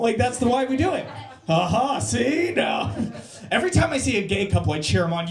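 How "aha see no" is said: smug gloating, rising; gloating triumph. Retold or imitated. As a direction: crow it like you won. Gloating voice quoted.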